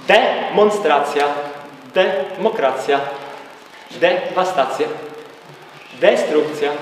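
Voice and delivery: "De" set apart at the start of each word, then a short break; slow word list, leaning on the opening "De"; wydzielona sylaba DE. Shown as a demonstration. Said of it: "D to jest w dół". (sylaba „De” oddzielona na początku każdego słowa)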